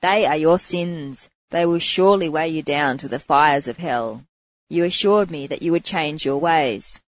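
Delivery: loud, stern preacher's proclamation; proclaiming. Acted. Monk confronting the prostitute about her sins, loud stern proclamation. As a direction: declare it like a scolding monk. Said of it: "he proclaimed".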